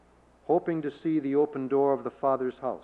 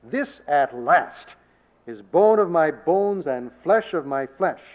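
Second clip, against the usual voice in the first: slow, louder, jubilant exclamation; celebrational cry; 6 dB louder, slower than usual. Retold or imitated. A young man greeting his bride, slow and louder in joy. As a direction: savour each word with joy. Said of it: "but a celebrational response".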